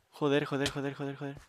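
swearing, trailing into a mutter; cursing under breath. Real, not acted. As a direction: curse quietly to yourself. Repeats curses, fading. (maldiciendo entre dientes)

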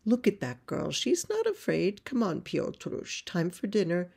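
mother coaxing from afar; calling out. Acted. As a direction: coax a child across the field. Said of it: "calls to her little boy".

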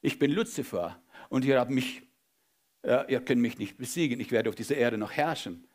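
demon voice. Retold or imitated. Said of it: "Dämonen sprechen raus".

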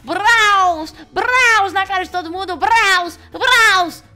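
high, loud triumphant yell; victory shout. Real, not acted. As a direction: crow over everyone after winning. Comemora vitória gritando. (grito de vitória)

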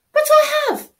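high loud indignant protest; loud high whiny protest; protesting shout. Acted. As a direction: insist you already did. Child protests to parent.

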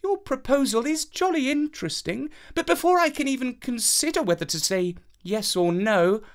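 high, prim and falsely polite; princess voice. A narrator's reading. Princess to the suitor boy, high and coyly polite. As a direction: sweetly set him an impossible task.

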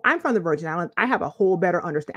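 a light, quick slip into a Virgin Islands accent. Shown as a demonstration. Telling viewers where she grew up, in a light Virgin Islands accent. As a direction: let the Virgin Islands accent come out on "I'm from the Virgin Islands". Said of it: "I had to switch accents on y'all for that one".

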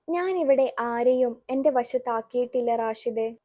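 a touch of calm, steady denial. Acted. Basheer calmly answering the angry son. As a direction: keep it level and unruffled. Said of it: "Basheer ശാന്തമായി പറഞ്ഞു".

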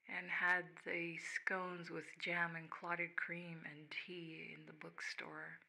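whispered reminiscence. Acted. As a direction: breathe it out like a secret memory. Whispered memory of Banff.

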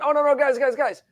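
hammed-up soothing voice, like talking down to a worried crowd; mocking old-earth reassurer. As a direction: parody of a pastor calming people about an old earth. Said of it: "a whole bunch of other people going".

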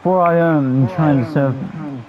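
grand announcement. Acted. Player announces his wrestler grandly.

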